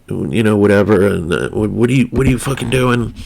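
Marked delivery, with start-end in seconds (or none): 1.5-3.1 put-on a light New York wannabe-gangster accent; lightly a New York street guy. The Italian asks his friend what he's doing, in a light New York gangster accent. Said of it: "New York-ish wannabe gangster accent".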